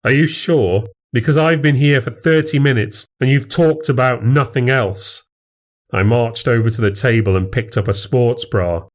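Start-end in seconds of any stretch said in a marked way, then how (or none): 0.1-5.2 raised pitch, pointed challenge; sarcastic needling. Acted. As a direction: press him with mock doubt. Goading the rival.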